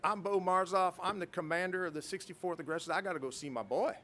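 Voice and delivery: lightly imitated Southern accent; Bo Marzoff, Southern accent. Commander demanding to see his pilot, light Southern accent. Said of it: "I don't have the best Southern accent".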